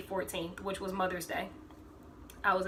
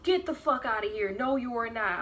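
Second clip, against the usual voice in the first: incredulous outburst; 4 semitones higher, 3 dB louder than usual. Retold or imitated. His mom refusing to believe.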